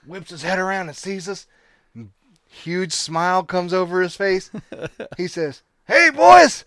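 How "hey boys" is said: higher, louder hearty welcome; booming friendly welcome; hearty call. Retold or imitated. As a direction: call them back like an old friend. Brantley greeting them loudly.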